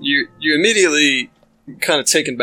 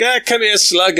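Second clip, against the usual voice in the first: gruff halfling call; 7 semitones higher than usual. Acted. Gride calling and whipping goblin.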